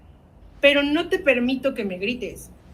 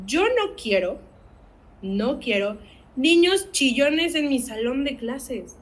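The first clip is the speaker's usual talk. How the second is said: scolding teacher; 3 semitones higher, slower than usual. Retold or imitated. Quoting a teacher who rejects crying kids, slow scolding tone. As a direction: imitate a teacher scolding a crying child, slowly. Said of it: "Con palabras tan hirientes como".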